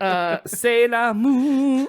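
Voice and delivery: put-on slow, high magical girl chant; mock transformation incantation; bright magical girl. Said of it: "making a henshin sequence".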